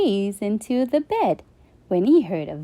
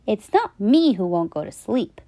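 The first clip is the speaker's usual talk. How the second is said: grumble. Acted. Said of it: "grumbled Flynn".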